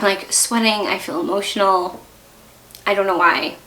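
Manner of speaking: normal talking voice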